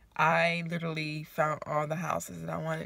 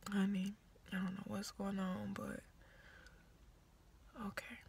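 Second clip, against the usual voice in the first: nosy whisper; 3 semitones higher than usual. Real, not acted. Nosy vlogger whispering about a truck outside. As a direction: whisper like you're peeking out the window. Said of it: "let me stop being nosy".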